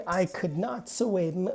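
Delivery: "could not" in full, with weight on "not"; intensify by stressing "not" in "could not"; emphatic COULD NOT. Shown as a demonstration. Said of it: "If I want to intensify".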